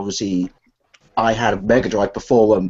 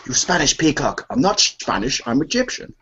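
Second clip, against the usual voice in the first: mock Highlander insult.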